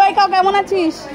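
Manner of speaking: put-on slow, coaxing words for the child to copy; gentle prompt. Shown as a demonstration. Parent showing the child how to greet the cow, slow and coaxing. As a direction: model the greeting slowly for your son. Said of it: "জিজ্ঞেস করো".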